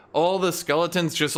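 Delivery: ordinary talk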